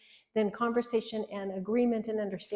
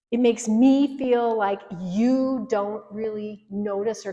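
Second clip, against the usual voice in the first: accusing complaint; 3 dB louder than usual. Shown as a demonstration. Wife scolding her husband about the messy kitchen, accusing. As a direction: lay the blame on him hard. Acted accusing spouse example.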